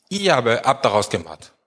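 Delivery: "Ihr aber" drawn into focus, "habt daraus gemacht" falling to a full stop; stress on IHR ABER. Shown as a demonstration. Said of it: "Die Betonung liegt auf". (Betonung auf „Ihr aber habt daraus gemacht“, am Ende fallend)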